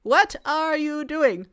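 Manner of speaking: mild mock anger. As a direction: play the furious husband, understated. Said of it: "Hans, very angrily, says".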